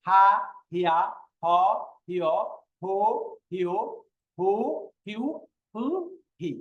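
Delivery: each syllable from হা to হি an easy breathed "h"; light, unforced sound. Shown as a demonstration. Teacher drilling the final letter, হ said lightly. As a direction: say হা, হিয়া, হ lightly, no throat pressure. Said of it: "উচ্চারণ হালকাভাবে করবেন".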